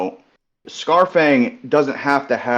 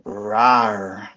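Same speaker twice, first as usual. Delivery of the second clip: dinosaur voice; 3 semitones lower than usual. Pretend. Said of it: "All right, ready?".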